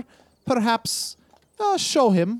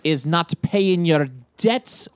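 very slow, cold reproach; slow menace; 3 semitones lower, slower than usual. Acted. Collector lectures the wounded Nathaniel, slow menace. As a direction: drag out the lesson.

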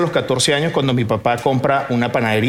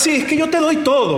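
mimicking father; 13 semitones higher than usual. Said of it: "me decía".

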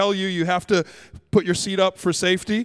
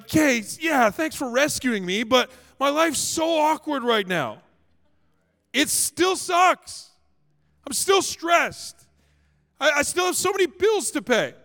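frustrated complaint to God, higher and drawn out; 4 semitones higher than usual. Acted. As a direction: gripe with long, raised stressed words. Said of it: "I felt that kind of frustration".

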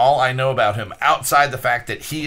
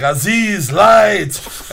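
high, loud mock yell for light; belted-out impression of a movie line; imitated movie shout; 8 semitones higher, 8 dB louder, much slower than usual. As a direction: call out like the exasperated archaeologist in a film. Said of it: "and he's like".

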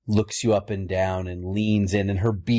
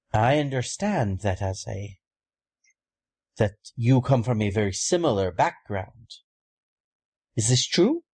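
put-on a lightly raised, measured voice of an old order's elder; Fetra, solemn elder. GM plays Fetra explaining order.

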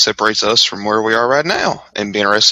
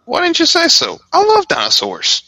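excited. Acted. Sudden delight at dinosaur fossil.

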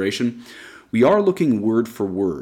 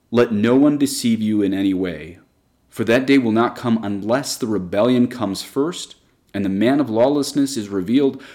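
solemn Bible reading, a little raised; scripture reading. Acted. Teacher reads Saint Paul to the class, solemn and raised. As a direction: proclaim Saint Paul's warning. Quotes Second Thessalonians.

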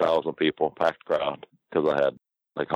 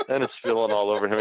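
laughing while talking; 5 semitones higher than usual. Real, not acted. Laughing at his own story.

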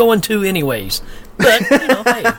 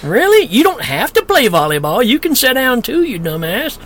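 mock retort; 6 semitones higher than usual. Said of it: "I'm like".

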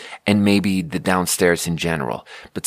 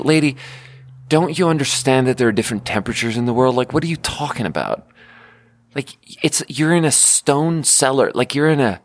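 higher, exasperated, fast disbelief; exasperated rant; 5 semitones higher than usual. Acted. The comic scolds the lady for believing in ghosts, exasperated and fast. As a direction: scoff at her like she's crazy.

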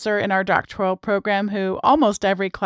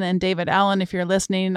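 dry, understated sarcastic aside; lightly sarcastic, a little softer at the end; 2 semitones lower, 4 dB quieter, faster than usual. Real, not acted. Host jokingly addressing an author who won't listen, sarcastic. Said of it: "I say that sarcastically".

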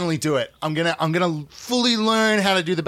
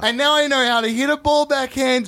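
put-on ten-year-old boy voice; 3 semitones higher than usual.

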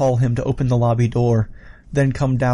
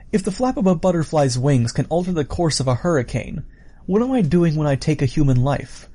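lightly voiced killer, musing aloud; musing villain; 3 semitones higher than usual. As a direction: muse on your own impact, slightly raised pitch.

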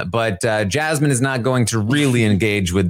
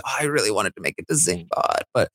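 imitated tearful speech; 5 semitones higher than usual. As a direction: lightly act out a crying goodbye. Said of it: "she starts crying".

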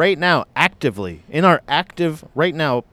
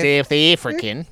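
slow attempt at a South African accent. Shown as a demonstration. Host showing off his accent repertoire, South African accent. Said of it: "Obviously, I get it perfect".

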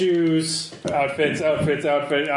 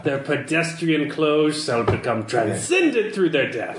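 grandly mannered rapture; lightly theatrical aesthete. Acted. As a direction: intone it as a mock-lofty prophecy. Contact rhapsodizes about dead hipsters' clothes.

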